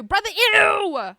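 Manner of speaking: drawn-out call. Shown as a demonstration.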